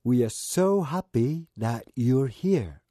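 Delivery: "We are so happy that you're here." slowly, without a break; slow and even, one continuous line; whole phrase in one go. Shown as a demonstration. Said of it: "最初は区切って言ってみます". (区切らずにゆっくり一息で)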